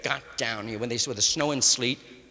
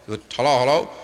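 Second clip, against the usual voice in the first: mock loud phone hello; 9 dB louder than usual. Acting a phone call.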